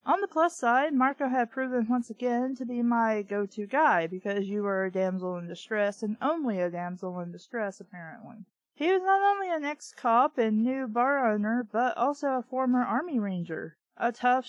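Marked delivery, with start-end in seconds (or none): 4.1-8.5 lower, dry sarcasm; lower, sardonic muttered aside; sarcastic aside. Real, not acted. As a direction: roll your eyes at the damsel bit. Sarcastic aside about damsel.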